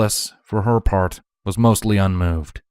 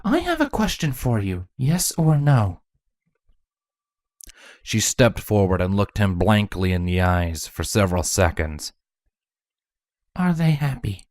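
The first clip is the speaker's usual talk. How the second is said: Chrysalis questioning. A narrator's reading. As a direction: ask it flatly, yes or no. Chrysalis voiced as figure.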